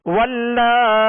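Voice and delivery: वल्लाई with the final ई held briefly, slowly; one-alif length. Shown as a demonstration. Teacher recites वल्लाई for students with short stretch. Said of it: "एक अलिफ की मिकदार में खींचेंगे".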